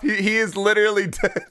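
normal talking voice

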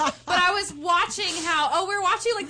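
giggly stoned rambling; stoner. Real, not acted. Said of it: "I'm stoned, I can't even talk".

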